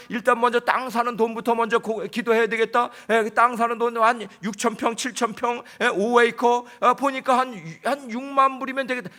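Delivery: loud, animated sermon delivery; preaching at full force. Acted. Pastor tells the church about praying for money, loud preaching. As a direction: preach it big to the congregation.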